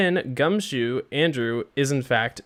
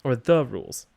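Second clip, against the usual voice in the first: indignant lawyer; 4 semitones higher than usual. Acted. Lawyer addressing the court about the planted knife, indignant. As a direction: swing the pitch high as an outraged courtroom lawyer. Voices a lawyer in game dialogue.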